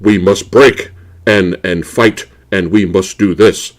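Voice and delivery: lightly voiced grunting hero; sophisticated caveman talk. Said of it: "That's what they sound like".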